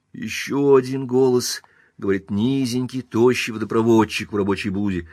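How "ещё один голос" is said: ordinary delivery, nothing marked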